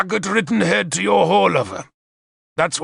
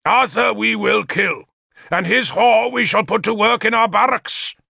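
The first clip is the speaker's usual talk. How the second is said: high, rallying war oratory; shouted speech; 8 semitones higher than usual. A narrator's reading. King rousing his hall against the enemy, shouted rally. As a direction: declaim it to the crowd, swelling in waves. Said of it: "Gorfethid shouted".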